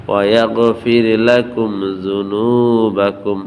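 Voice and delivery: measured Quranic chanting; slow recitation. Shown as a demonstration. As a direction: recite ওয়া ইয়াগফির লাকুম জুনুবাকুম slowly and melodically. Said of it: "teacher recites the verse".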